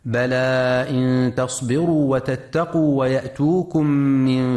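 slow chanted tajweed recitation; Quran recitation. Acted. Radio tajweed teacher chanting the verse slowly for listeners. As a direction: chant the verse slowly, stretching the long vowels.

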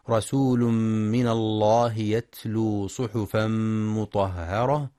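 slow, drawn-out tajweed chant; Quran recitation. Shown as a demonstration. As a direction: recite the verse slowly, stretching the vowels. (تلاوة مجودة بطيئة)

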